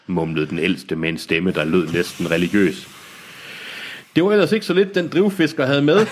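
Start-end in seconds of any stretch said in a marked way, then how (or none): 4.2-6.1 sighing trader. A narrator's reading. Trader sighs over the drift-fisher's haul, high sighing complaint. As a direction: sigh it out, high and put-upon. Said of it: "sukkede den anden handelsmand".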